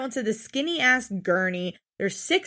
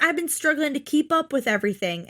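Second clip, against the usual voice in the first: mock Gary voice; 2 semitones higher than usual. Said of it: "He's like".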